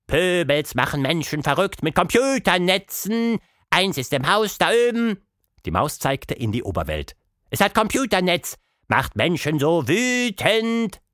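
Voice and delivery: a broken-speaking little mouse. A narrator's reading. Mouse explains.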